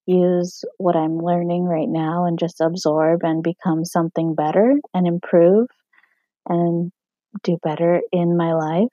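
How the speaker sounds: scratchy, hoarse throat from smoking. Real, not acted. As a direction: speak through a scratched-up throat. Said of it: "Sorry about my voice".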